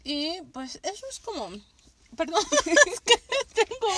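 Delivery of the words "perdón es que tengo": talking round an ice cube; ice in mouth. Real, not acted. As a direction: mouth full of ice, laughing. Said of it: "tengo un hielo en la boca".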